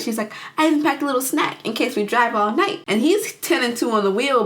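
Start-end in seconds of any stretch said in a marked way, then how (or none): 0.6-2.8 mildly acted excitement, a little high; so excited. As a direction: chirp it like an eager passenger. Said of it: "like, so excited".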